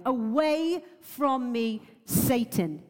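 slow, firm and annoyed command; a measured, cross dismissal; authoritative rebuke. Shown as a demonstration. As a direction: order him away with calm authority. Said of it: "that, like, authority coming".

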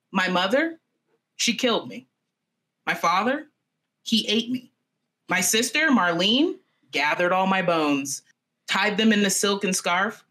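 spoken verse, line by line with pauses; reading song lyrics. Acted. Storyteller reads the bird's song aloud, measured recital. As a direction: recite the song without singing it. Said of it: "I'm gonna read this song".

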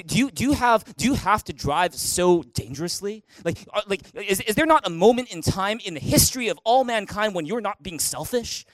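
mock sarcastic questioning; pointed, mildly exasperated sarcasm. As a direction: act out an attack disguised as a question. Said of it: "That is sarcasm disguised in a question".

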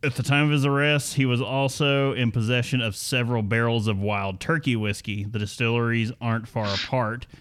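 scripted story read with lively swooping emphasis; news read. Acted. Host reading the bourbon theft story to co-hosts, news read. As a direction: read it out like a podcast news segment.

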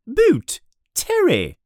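high, sharp roll call; teacher summoning a student; stern teacher calling. Acted. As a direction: call the name out to the hall. McGonagall calling names.

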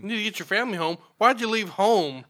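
incredulous, lightly hammed-up telling-off; mock scolding. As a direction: chide an absent fool in disbelief. Mock scolding of the absent woman.

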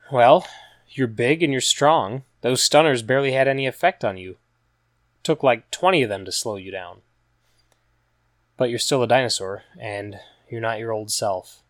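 a hint of a young woman comforting a friend; Regina reassuring. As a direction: encourage him gently.

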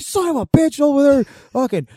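high, loud indignant rant; ranting dad. Retold or imitated. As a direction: gripe loudly about the neighbor. Dad ranting about neighbor.

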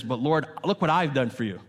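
mildly voiced prideful complaint to God; a hint of self-righteous boasting; imitating a proud believer's prayer. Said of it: "this prideful attitude that says".

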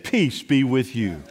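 low, measured words of comfort; calm blessing. Retold or imitated. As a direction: speak peace slowly over a troubled room. Quotes Jesus calming the disciples.

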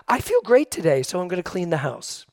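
quoting mom. Retold or imitated. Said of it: "She goes".

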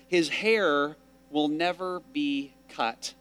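slow, measured reading of a vow; scripture reading. Acted. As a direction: read it as a solemn prayer. Reads Hannah's vow from scripture.

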